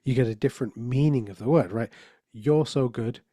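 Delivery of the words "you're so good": "You're" carries the stress, "so good" lighter. Shown as a demonstration. Speaker demonstrating emphasis to the audience, stress on "You're". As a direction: hit "You're" first and let the rest fall away. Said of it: "put a different emphasis on each of the different words".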